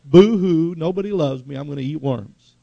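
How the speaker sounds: hammed-up loud boo-hoo, then trailing off; mock a sulking child; mock sobbing self-pity. Elijah whining in the cave, mock crybaby sob. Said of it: "full of self-pity".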